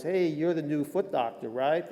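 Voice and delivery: lightly attempted Southern accent; half-hearted imitation of a Southern trainer; bad Southern accent. Head trainer greeting the new foot doctor, bad Southern accent. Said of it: "Sorry, bad Southern accent".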